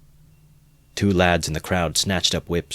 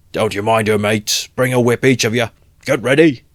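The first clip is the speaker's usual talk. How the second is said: loud, higher commanding call; rallying shout; 5 semitones higher, 7 dB louder than usual. Acted. Mikulka ordering his mates, loud command. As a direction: order the mates to grab whips.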